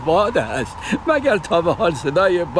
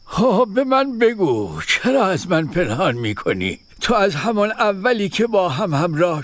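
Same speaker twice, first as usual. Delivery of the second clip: kindly. Acted. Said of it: "با مهربانی پرسید".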